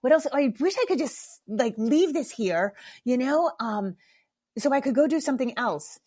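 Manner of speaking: impatient groan. Retold or imitated. To herself at the water jug, impatient and exasperated. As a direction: sigh it out like waiting is torture. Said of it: "I was so impatient".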